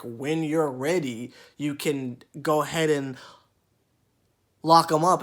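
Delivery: a hint of a patronizing elder; patronizing lady. Loc lady talking down to him like a child, mock patronizing. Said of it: "and it's like".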